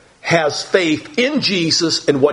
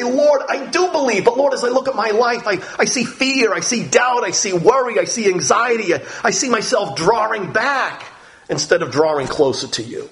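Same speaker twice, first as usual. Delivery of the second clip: raised, earnest plea to the Lord; a humble prayer voiced higher; humble confession; 5 semitones higher than usual. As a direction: confess your doubts openly. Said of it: "you're gonna say".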